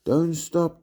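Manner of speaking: high call from below. A narrator's reading. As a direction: call encouragement upward. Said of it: "Biscuits called from underneath me".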